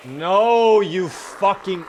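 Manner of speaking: loud, high outburst, the last word dragged slowly; angry shout. Real, not acted. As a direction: blow up as the bunny gets away. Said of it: "I'm so mad right now".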